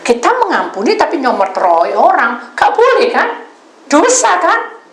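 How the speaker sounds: loud, high rebuke; stern confrontation. Retold or imitated. Confronting the sinner in her story. (teguran keras bernada tinggi)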